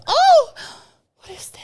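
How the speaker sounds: sudden high squeal of surprise; hammed-up startled yelp; mock startled gasp. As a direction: jump up in pitch, startled. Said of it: "it turns on and I go".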